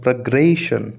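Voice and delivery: प्रोग्रेशन with the ग्रे punched and held; stress on ग्रे. Shown as a demonstration. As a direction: lean on GRAY in प्रोग्रेशन. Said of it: "तो ग्रे पर आएगा". (प्रोग्रेशन के ग्रे पर ज़ोर)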